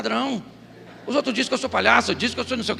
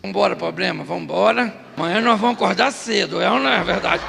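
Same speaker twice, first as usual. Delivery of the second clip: imitating the woman; 4 semitones lower than usual. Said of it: "ela faz assim, ó".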